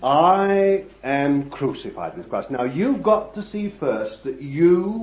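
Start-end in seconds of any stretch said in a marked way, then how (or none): 0.0-2.5 firm declaration; quoting Paul. Real, not acted. Preacher quoting Paul's letter to the congregation, firm and declared. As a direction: say it as Paul's own confession. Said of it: "see what Paul saw".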